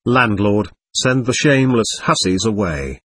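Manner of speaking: ordinary delivery, nothing marked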